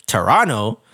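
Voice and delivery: "Toronto?" said low and flat in disbelief; mock-baffled "Toronto?"; incredulous Toronto. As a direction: drop it like a deadpan double take. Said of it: "me and Priya are like".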